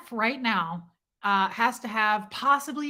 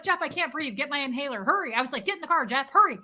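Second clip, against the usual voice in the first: mock panic; 4 semitones higher, faster than usual.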